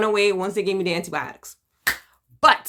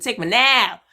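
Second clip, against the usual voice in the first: pleading prayer; 4 dB louder, slower than usual. Retold or imitated. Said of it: "nights I was like".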